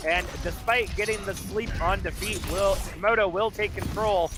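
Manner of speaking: steady, keyed-up esports commentary; live play-by-play. Real, not acted. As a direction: call the action as it happens.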